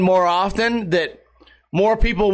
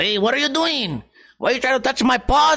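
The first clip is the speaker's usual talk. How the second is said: put-on Spanish accent, pitched up; 5 semitones higher than usual. Voicing what his dog says when he touches its paws, put-on Hispanic accent. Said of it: "he has a sort of a Hispanic accent".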